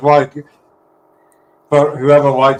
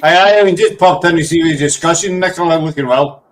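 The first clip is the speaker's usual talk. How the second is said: quicker go at an Irish accent; sped-up Irish accent attempt. Shown as a demonstration. Redoing the comment faster in an Irish accent, still Scottish-sounding. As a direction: run it together in attempted Irish. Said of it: "You need to speed it up".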